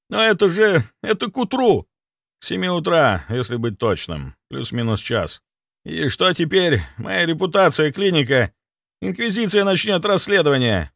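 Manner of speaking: high, anxious middle-aged doctor voice; panicking clinic head. Acted. Clinic head panicking to the doctor, high and anxious. Somov panics over patient.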